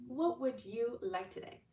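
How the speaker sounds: God asking again. Retold or imitated. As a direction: draw it out like a doting father. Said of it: "And God's like".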